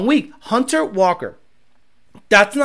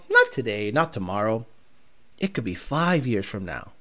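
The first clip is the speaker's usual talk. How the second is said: ominous low warning; 12 semitones lower, 9 dB quieter than usual. Real, not acted.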